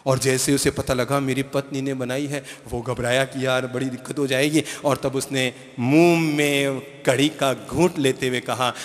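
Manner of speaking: ordinary delivery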